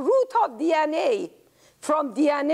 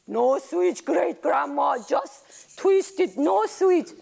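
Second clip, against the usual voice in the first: put-on child voice; 3 semitones higher, slower than usual. Child corrects grandma.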